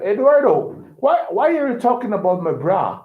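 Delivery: lightly voiced lady demanding an explanation; American lady's surprise. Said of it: "the American lady said".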